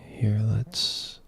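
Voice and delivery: quick hushed whisper. Real, not acted. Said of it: "I'm trying to whisper".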